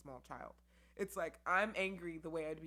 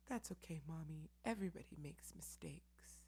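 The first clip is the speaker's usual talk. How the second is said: gentle reassurance; 4 dB quieter than usual. Retold or imitated. Son comforting, gentle.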